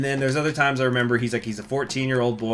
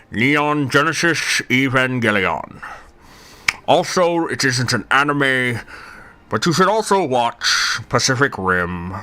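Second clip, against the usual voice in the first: Churchill voice. Pretend. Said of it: "read my Darling in the Franxx anime notes in Winston Churchill's voice".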